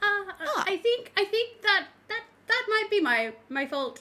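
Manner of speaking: very high, tiny, frightened stutter. A small character peeking over a mushroom speaks up, little scared stuttering voice. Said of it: "As you as you hear this little scared, stuttering voice".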